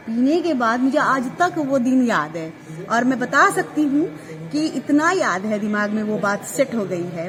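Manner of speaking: normal talking voice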